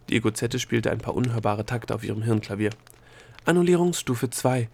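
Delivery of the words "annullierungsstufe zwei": higher-pitched formal proclamation; crisp procedural declaration; official announcement. A narrator's reading. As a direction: announce the next stage like an official. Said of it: "verkündete sie".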